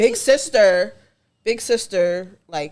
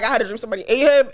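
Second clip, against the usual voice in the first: laughing imitation; faster than usual. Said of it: "she just said it like".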